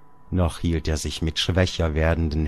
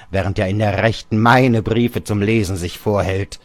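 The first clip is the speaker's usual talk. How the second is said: put-on lightly raised, boastful old man; gloating father; 3 semitones higher, 4 dB louder than usual. Father boasts to Georg about writing the friend. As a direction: brag about the secret letters.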